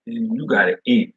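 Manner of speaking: ordinary talk, nothing marked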